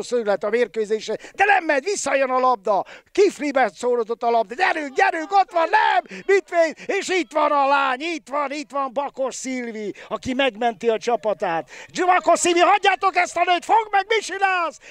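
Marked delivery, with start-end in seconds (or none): 4.5-14.8 high, urgent live call; excited sports commentary. Real, not acted. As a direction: urge the players on. Frantic goalmouth scramble.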